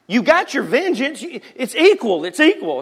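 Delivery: high, coaxing mother; a light mock explanation; mom reasoning. Mom telling son he got vengeance. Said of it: "And I'm like".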